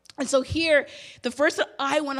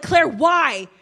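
shocked question; 3 semitones higher, 8 dB louder than usual. Retold or imitated. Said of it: "I was in shock".

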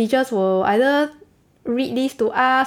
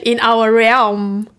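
mock solemn; 4 dB louder, slower than usual. Mock believer quote, laughing.

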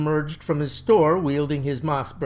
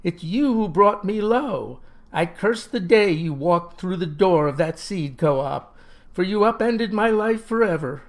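high, raised accusing cry; bitter outcry; 4 semitones higher, 3 dB louder than usual. Acted. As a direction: rail at him for ruining your life. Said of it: "cries he".

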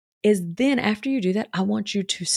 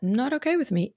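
secure and settled; 5 semitones higher than usual. Shown as a demonstration. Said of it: "just feel secure in that".

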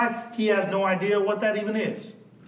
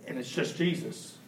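soft reflection; 3 semitones lower, 7 dB quieter than usual. Real, not acted.

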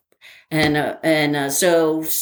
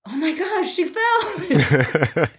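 higher, astonished with a laugh; 11 semitones higher, much slower than usual. Retold or imitated. Remembering the race moment, astonished and laughing. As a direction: blurt it out in disbelief. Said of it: "it was just like".

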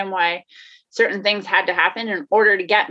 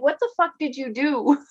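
panicked self-talk; 6 semitones higher than usual. Retold or imitated. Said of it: "you're just like".

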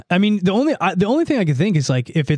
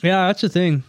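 chewing while talking. Real, not acted. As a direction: mouth full of candy. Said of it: "Sorry, I'm eating Mamba".

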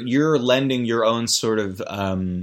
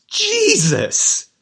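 high-pitched, drawn-out cry of disbelief; squealed exasperation; appalled exclamation; 4 dB louder than usual. Real, not acted. Appalled at the diaper scene.

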